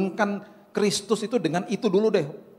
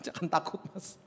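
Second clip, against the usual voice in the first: much softer words through laughter; laughing reassurance; 11 dB quieter than usual. Retold or imitated. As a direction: chuckle quietly while reassuring someone. Laughing through his own acted reassurance. (menenangkan sambil tertawa pelan)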